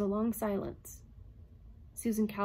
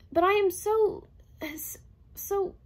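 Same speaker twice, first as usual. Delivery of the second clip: higher, louder, stuttering to a stop; stammering; 12 semitones higher, 6 dB louder, slower than usual. A narrator's reading. Calvin flustered before the robot, stammering. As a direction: trip over the words. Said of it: "she stammered to a halt".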